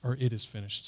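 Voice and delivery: very soft, voiced murmur; mock whisper. Shown as a demonstration. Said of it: "He didn't just whisper".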